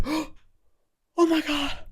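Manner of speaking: high, slow, drawn-out shock; shocked gasp. Retold or imitated. House sitter caught by the owner, drawn-out shocked cry. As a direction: stretch out the horror of being caught.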